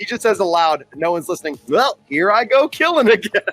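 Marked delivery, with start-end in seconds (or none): 1.7-3.4 voice lifted into cartoon style. Retelling a cartoon scene, quoting a sketchy alien assassin: Ned Flanders-like voice. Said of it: "then he sounds like Ned Flanders".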